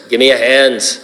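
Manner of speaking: put-on Quint's Irish accent, lightly done. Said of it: "It's my best Irish accent".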